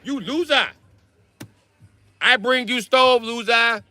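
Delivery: stingy landlord asking for rent; mock Asian landlord accent. Landlord insulting tenant.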